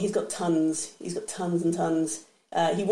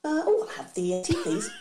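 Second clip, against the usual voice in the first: high, lilting stewardess; mock stewardess; 7 semitones higher than usual. Stewardess walking the aisle, offering drinks, lilting high. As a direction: offer drinks like a cabin attendant, pitched up. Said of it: "the stewardess walking down the aisle".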